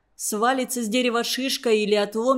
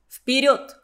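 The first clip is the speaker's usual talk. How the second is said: приказ; 2 semitones higher, 3 dB louder than usual. Acted. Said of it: "кратко приказал он".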